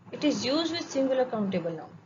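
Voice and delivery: very slow, word by word; धीरे धीरे लिखवाते हुए; slow dictation. Shown as a demonstration. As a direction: read it out slowly so students can write. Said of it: "अब देखते हैं indefinite article".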